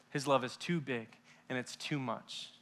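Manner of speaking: very soft, slowing; soft reverent close; hushed awe. Real, not acted. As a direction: breathe it out tenderly. Tender sermon close.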